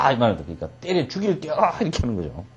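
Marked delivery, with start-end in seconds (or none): 0.4-1.5 threatening giant. Acted.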